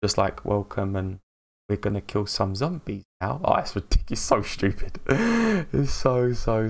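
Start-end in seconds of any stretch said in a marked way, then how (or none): 0.4-3.4 stiff robotic intro. Retold or imitated. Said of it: "solid as a rock no fluid motion".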